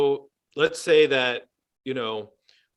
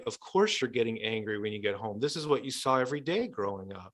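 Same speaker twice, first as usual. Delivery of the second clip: softer, understanding and reassuring; compassionate validation; 3 semitones lower, 6 dB quieter than usual. Acted. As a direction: gently tell them their anger makes sense. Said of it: "I'll move into compassion".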